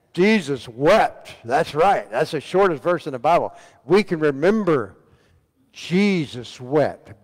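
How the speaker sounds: loud, high mock-triumphant quiz answer; big, loud know-it-all delivery, hammed up; making fun. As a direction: crow it out like an easy answer. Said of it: "make fun of".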